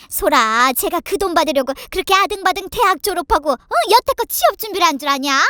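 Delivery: indignant tirade with loud bursts; fuming mother-in-law. A narrator's reading. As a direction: rant at the family, full of outrage. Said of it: "눈에 화가 가득해서는 씩씩거렸고". (씩씩대며 따지는 시어머니)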